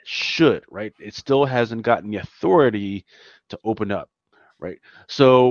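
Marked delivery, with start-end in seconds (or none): 0.1-0.6 "should" set apart as a word on its own; stronger, falling emphasis on "should"; stress on should. Real, not acted. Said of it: "That's a key word".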